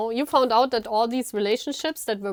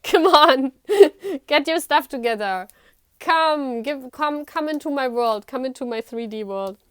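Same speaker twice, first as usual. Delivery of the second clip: roaring lioness; 2 semitones higher, 5 dB louder than usual. Acted. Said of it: "You were like".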